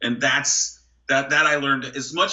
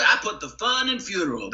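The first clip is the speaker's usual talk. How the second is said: Terry Bradshaw; 6 semitones higher than usual. Retold or imitated. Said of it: "Terry Bradshaw is right here".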